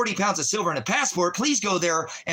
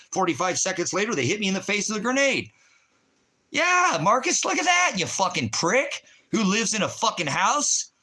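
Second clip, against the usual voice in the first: furious yelling; 5 semitones higher than usual. Real, not acted. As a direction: spit every insult at him. Yelling insults at Marcus.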